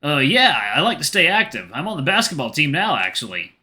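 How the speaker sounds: a hint of an eager young athlete; boyfriend, modest. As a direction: play the boyfriend answering modestly.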